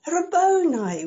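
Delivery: joyful cry. Acted. Mary recognises Jesus and cries out joyfully. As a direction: call out his name in delight. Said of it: "And she said".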